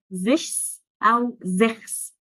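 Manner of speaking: "زش" و"زخس" بنطق مغلوط ممطوط; نطق غلط. Shown as a demonstration. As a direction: say the wrong versions "زش" and "زخس" slowly. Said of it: "فالش. غلط". (نطق خاطئ على سبيل المثال)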